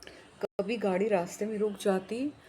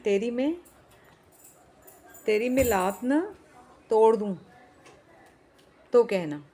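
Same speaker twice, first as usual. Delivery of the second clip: louder and higher, rising to a yell; angry shout; 3 semitones higher, 6 dB louder than usual. Acted. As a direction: threaten him at full voice. Clerk threatening to kick.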